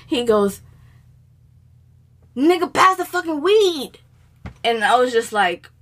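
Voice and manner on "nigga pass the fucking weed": higher, mock-irritated demand; retold angry demand. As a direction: imitate a fed-up friend demanding his turn. Retold angry demand over hogged weed.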